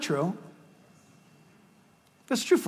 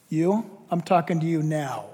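quiet, lower voice of restrained authority; low-key police officer; 4 semitones lower, 5 dB quieter than usual. Retold or imitated. Cop coming down the aisle to the ranting fan, quiet firm order. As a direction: address the troublemaker softly and firmly. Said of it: "the guy just goes like this".

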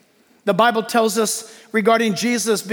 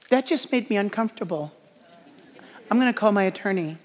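whiny complainer; 5 dB quieter, faster than usual. Retold or imitated. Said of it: "that's how I hear it in my head".

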